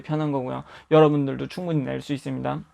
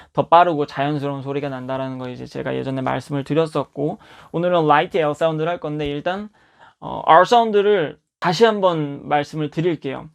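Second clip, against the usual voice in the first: ordinary talk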